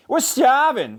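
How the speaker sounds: high, whiny complaint; hungry friends. A narrator's reading. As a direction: complain with empty bellies. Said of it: "said his friends".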